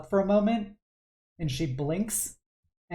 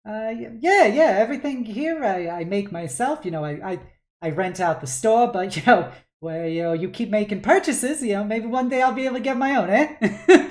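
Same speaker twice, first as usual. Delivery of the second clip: louder, higher, laughing shopkeeper; proud chatty dad; 6 semitones higher, 6 dB louder than usual. Acted. Dad joking with the customer about his shop, louder with laughs. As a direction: chuckle through the sales talk.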